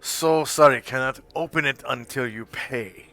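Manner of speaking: shopkeeper voice. Acted. Shopkeeper haggles.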